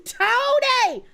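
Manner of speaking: high yelled name, pitch jumps up; a quick mock yell across the room. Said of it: "her voice when she's yelling".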